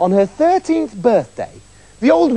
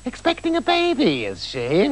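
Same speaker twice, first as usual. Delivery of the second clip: thoughtful witch; 6 semitones higher than usual. Acted. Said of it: "the witch said thoughtfully".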